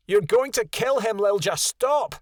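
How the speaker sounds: mother wolf crying out in alarm; cried out. A narrator's reading. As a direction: call out to stop the fight. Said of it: "Konya cried".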